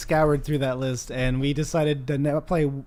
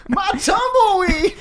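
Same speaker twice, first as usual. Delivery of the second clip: hammed-up shout; 4 dB louder, slower than usual. Voicing guy chasing tumbleweed.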